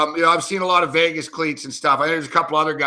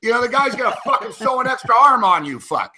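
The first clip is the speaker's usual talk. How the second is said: heated rant, pitched up; worked up; 4 semitones higher than usual. Real, not acted. Sports host ranting to his co-host about a player, worked up. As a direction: get carried away ranting, voice climbing. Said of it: "sorry, I'm getting worked up here".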